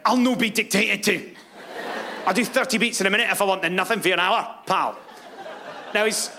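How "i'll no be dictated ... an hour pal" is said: Scottish heart. Retold or imitated. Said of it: "her little heart went".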